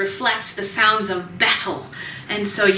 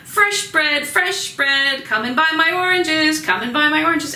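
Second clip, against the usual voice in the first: higher-pitched sing-song hawking; market vendor calls; 6 semitones higher than usual. Retold or imitated. Teacher imitating Paris market sellers calling out their goods. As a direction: call out bread and oranges to passersby. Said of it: "they're yelling out".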